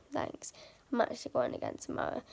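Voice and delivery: croaky, fading voice; hoarse late-night voice; voice giving out. Real, not acted. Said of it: "my voice is so croaky".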